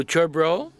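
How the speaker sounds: very slow, stretched Kiwi accent on sure bro; slow, laid-back Kiwi accent as a model; Kiwi slang demo. Shown as a demonstration. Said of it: "Pourriez-vous répéter après moi?".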